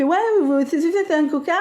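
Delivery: «c'est, c'est, c'est un coca» with a wet lisping s; slushy lisp. Retold or imitated. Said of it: "quand il, il zozote, comme ça".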